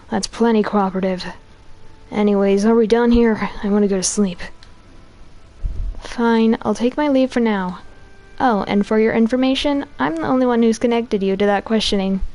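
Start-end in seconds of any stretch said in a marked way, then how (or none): 6.0-12.2 man doing a woman's voice, detective; lightly voiced tough policewoman; police lady voice. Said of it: "here comes my police lady voice".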